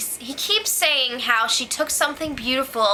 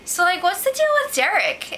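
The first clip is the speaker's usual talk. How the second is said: imitating Nicole; 7 semitones higher than usual. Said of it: "she's still like".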